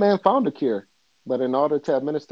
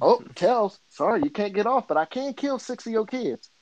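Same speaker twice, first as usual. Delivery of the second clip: Two-Face verdict; 7 semitones higher than usual. Retold or imitated. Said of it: "Two-Face flips coin, verdict".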